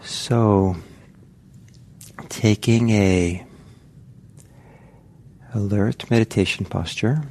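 unhurried guiding voice with long pauses; guided meditation. Real, not acted. Teacher settling meditators into posture and breath, unhurried guided meditation. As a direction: ease them gently into the practice, leaving space.

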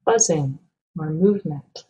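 calm, measured meditation guide with long pauses; guided meditation. Acted. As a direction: guide listeners gently, leaving space between phrases.

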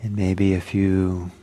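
unhurried meditation guidance with long pauses; calm guided-meditation delivery, phrase by phrase. Real, not acted. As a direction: gently guide them into settling, leaving space between phrases.

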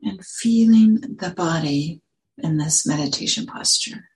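unhurried guiding voice with long pauses; calm meditation teacher, phrase by phrase; guided meditation. Real, not acted. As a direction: lead them gently into settling, leaving space between phrases.

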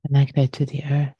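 unhurried meditation guidance with long pauses; guided meditation. Real, not acted. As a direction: gently guide listeners to settle, phrase by phrase.

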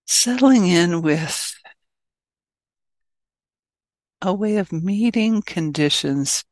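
measured meditation guidance with long pauses; guided meditation. Acted. Teacher settling an online group into meditation, guided meditation. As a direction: ease listeners gently into stillness, phrase by phrase.

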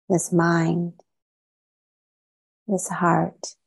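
measured guided-meditation voice with long pauses. Real, not acted. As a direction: gently lead listeners inward, leaving long silences between phrases. Leads a meditation.

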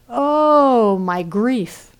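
high wailing "Oh" that falls back; hammed-up lament; mock wailing. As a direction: moan it like a tragic lament. Voicing Ereshkigal's wailing.

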